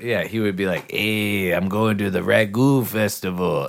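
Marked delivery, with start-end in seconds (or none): 0.9-3.7 loud, slow, drawn-out put-on Latin American accent. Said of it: "he did, like, a Latino accent".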